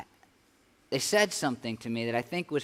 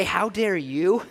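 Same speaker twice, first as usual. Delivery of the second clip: mild defiance; 3 semitones higher, 4 dB louder, slower than usual. Acted. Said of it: "and say".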